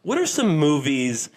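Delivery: swooping pitch with stretched, portentous phrasing; affected presenter voice. Pretend. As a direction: savour every word like a grandiose announcer. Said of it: "I don't know why I'm talking like this".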